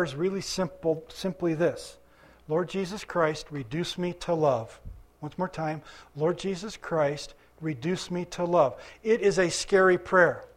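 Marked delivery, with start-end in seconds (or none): 2.5-4.8 measured prayer. Shown as a demonstration. Models a prayer for the congregation. 6.1-8.8 measured prayer. Shown as a demonstration. Repeats the prayer for the congregation.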